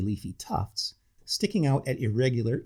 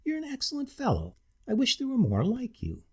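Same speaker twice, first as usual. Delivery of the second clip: tipsy praise; 13 semitones higher than usual. Acted. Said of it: "exaggerated civility of slight intoxication".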